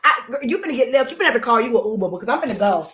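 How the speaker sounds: ordinary talk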